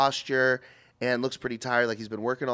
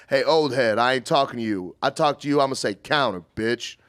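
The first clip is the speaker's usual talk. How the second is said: loud, annoyed put-down; mock snapping; 4 dB louder than usual. The cook snaps at the old man for interrupting, loud mock put-down. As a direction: cut the old man off hard. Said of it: "and he goes".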